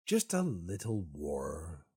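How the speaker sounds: slow, drawn-out mock plea; playful pleading. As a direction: coax for it, stretching the words. Begging the game for a war.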